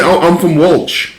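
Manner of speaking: slow, lightly put-on British accent. Driver claiming to be from Wales in a put-on British accent. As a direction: drawl it like a proper Brit. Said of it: "British accent".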